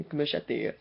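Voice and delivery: low mock Spanish accent; bad Spanish accent. Imitating the film's cast, bad Spanish accent. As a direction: say it in a badly faked Spanish accent. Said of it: "I have a really bad Spanish accent".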